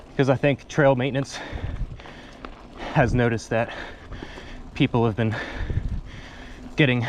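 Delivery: winded, gasping between phrases; out of breath. Real, not acted. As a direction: talk while catching your breath. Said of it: "excuse me, I'm out of breath".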